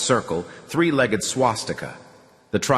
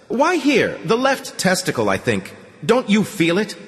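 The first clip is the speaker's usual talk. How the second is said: put-on higher sing-song doctor with an accent; 11 semitones higher than usual. A narrator's reading. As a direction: lilt it like an oily foreign doctor. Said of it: "sing-song voice with an undefeated accent".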